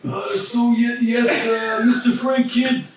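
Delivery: a hint of an old record boss; Bernie Sanders voice. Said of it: "I'll be the Jew now".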